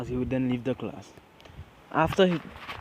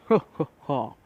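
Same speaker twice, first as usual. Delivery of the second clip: acted hero laugh; 2 semitones higher, 5 dB louder than usual. A narrator's reading. All Might's laugh in the story.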